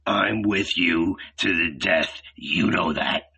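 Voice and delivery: lightly voiced character, low and subdued; low-pitched sworn loyalty; Judas pledging loyalty. A narrator's reading. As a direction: pledge it low, sinking at the end.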